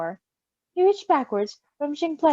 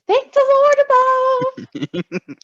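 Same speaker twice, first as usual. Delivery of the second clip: relieved cry; 14 semitones higher, 7 dB louder, much slower than usual. Real, not acted. Relieved exclamation.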